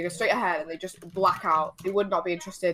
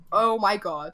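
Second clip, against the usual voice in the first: retold exasperation, second take much louder; fuming; 6 dB louder, slower than usual. Thinking about the man beside them, mock fuming. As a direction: build from stunned to seething. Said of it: "I'm fuming".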